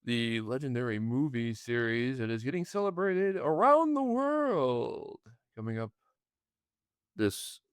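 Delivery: a hint of a radio announcer; slow, announcer-style read. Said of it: "It's like if I'm at radio voice on".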